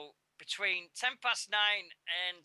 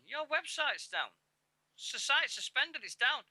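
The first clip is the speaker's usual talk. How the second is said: worried message; 10 semitones higher than usual. Retold or imitated. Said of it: "messages ... from Winters going".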